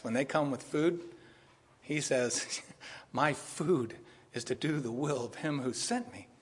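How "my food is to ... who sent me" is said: slow earnest quote. Retold or imitated. Quoting Jesus slowly.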